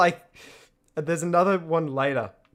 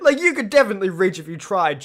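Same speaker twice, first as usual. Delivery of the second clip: laughing tease; 4 semitones higher, 6 dB louder than usual. Real, not acted. Laughing while teasing.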